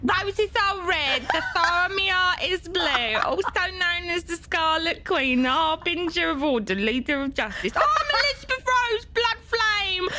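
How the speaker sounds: dramatic hero intro. Acted. Dramatic self-introduction poem.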